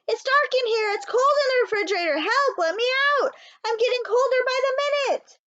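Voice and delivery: high, loud pleading calls; frightened calling. A narrator's reading. Small mouse locked in fridge, calling out in fear. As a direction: call out, scared and cold.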